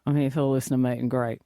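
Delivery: put-on quick, mumbly older man, lightly done; mumbly older bloke. Shown as a demonstration. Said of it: "a little bit mumbly like".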